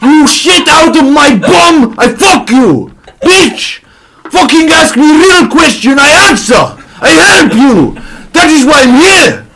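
high, loud mock-Serbian ranting, laughing through it; a hammed-up shouting footballer losing it; furious Serbian rant. Vidic rants at his tribe, high, loud and half-laughing in a mock Serbian accent. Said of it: "there's a fight between Dogs and Vidic".

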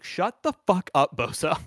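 hammed-up annoyance, stretched out; mock irritated rebuke. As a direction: play an exasperated quarterback telling someone off. Voicing quarterback snapping at teammate.

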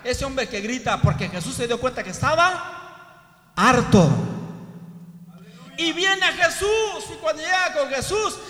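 loud, high, urgent sermon cry; full-force preaching. Acted. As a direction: preach it out, raising the voice to the crowd. (predicación a todo pulmón, con voz alta y fuerte)

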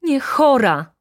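a loud, high "Nie chora"; calling out. A narrator's reading. The baroness exclaims to the judge, loud and high. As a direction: fling the denial out loudly. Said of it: "zawołała baronowa".

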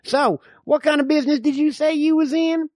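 lightly voiced suspicious old frontiersman; old man. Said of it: "I'm the old man".

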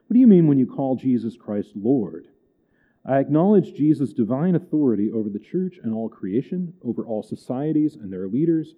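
measured, formal reading of a creed; reading aloud. Acted. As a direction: read out a catechism question and answer.

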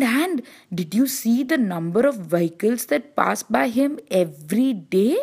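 a hint of an excited chorus of little roads; admiring side roads.

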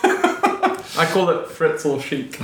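laughing. Real, not acted. Joking about grim studio.

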